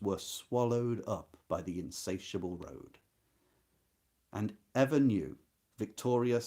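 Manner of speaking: measured, expressive reading of a novel passage; literary reading. Acted. Teacher reading a novel passage to students, expressive and measured. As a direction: read the prose aloud to the class with weight.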